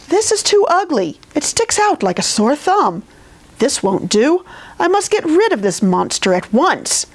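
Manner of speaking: disgusted king. Acted.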